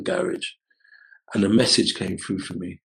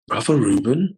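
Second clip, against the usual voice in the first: puzzled echo; 3 semitones higher, 5 dB louder than usual. Retold or imitated. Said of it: "like that, like, looking".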